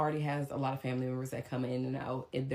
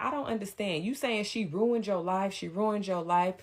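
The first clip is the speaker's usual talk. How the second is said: incredulous mom; 6 semitones higher, 4 dB louder than usual. Retold or imitated. Mom voiced questioning him.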